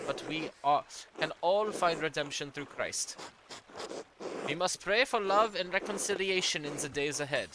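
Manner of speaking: put-on light German accent for an old churchman's letter; a hint of a German accent, formal and measured. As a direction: read it as a German-accented archdeacon. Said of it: "I accidentally gave him a German accent".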